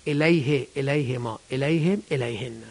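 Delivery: "الیه، الیهما، الیهم، الیهن" with i after each h; kasra after ya. Shown as a demonstration. Teacher showing the rule after silent ya, "الیه، الیهما، الیهم، الیهن" with i sounds. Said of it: "یای ساکن هم بذارید همینطوره".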